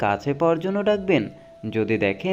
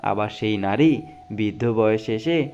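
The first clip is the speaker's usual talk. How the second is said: dramatic reading of life quotes; motivational quote recitation. Acted. Reading life advice to viewers, earnest dramatic recitation. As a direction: recite each saying like a moving lesson.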